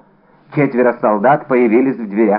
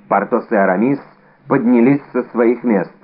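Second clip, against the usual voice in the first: ordinary delivery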